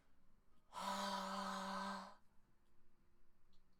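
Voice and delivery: long breathy ha; breathy ha note. Shown as a demonstration. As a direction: sustain an airy ha. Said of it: "Listen again".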